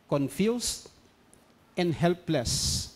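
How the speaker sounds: "Confused ... and helpless" with long pauses; preacher repeating the verse's words slowly; slow emphatic repeat. Shown as a demonstration. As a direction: let "Confused" hang, then drop onto "and helpless". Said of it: "Because they were confused, helpless".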